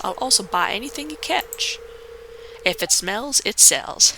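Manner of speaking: a hint of a hearty sea dog greeting a newcomer; fisherman voice. Gamer voicing the fisherman who welcomes the newcomer, hearty. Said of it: "don't know if I'm gonna keep that voice for him".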